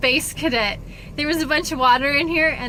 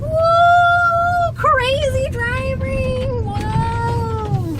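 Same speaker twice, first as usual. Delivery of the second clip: mock excited; 13 semitones higher, 3 dB louder, much slower than usual. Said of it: "Just kidding".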